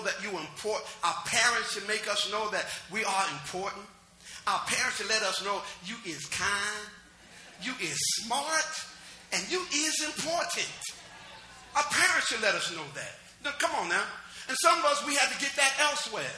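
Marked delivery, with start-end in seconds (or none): 5.8-10.7 slow, tender, half-sung reassurance; a parent's gentle, lilting encouragement; tender affirmation. Acted. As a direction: soothe a child slowly. Quoting famous affirmation tenderly.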